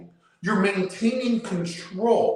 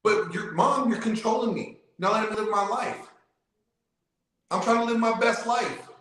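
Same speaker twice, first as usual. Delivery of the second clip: lightly voiced teenager, pitched up; a hint of a complaining kid, imitated in a higher voice; protesting kid; 5 semitones higher than usual. Kid complains to controlling mom about curfew, lightly mimicked protest.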